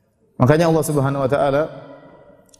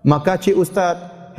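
coy flirty thank you; 3 semitones higher, much slower than usual. Pretend. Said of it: "itu jadi masalah".

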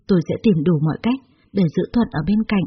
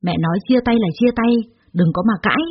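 mother's yell; 3 semitones higher than usual. Acted. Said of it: "Tôi quát ầm nhà lên".

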